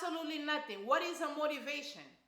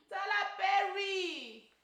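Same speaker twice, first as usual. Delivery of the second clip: exasperated; 5 semitones higher, slower than usual. Real, not acted. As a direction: drag the name out in disbelief. Exasperated at the director.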